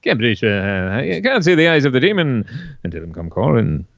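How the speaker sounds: tentative second go at a presenter impression; lightly put-on broadcaster voice; villain's line in a chatty presenter's voice; Wogan. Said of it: "do King Willie's lines in Wogan's voice".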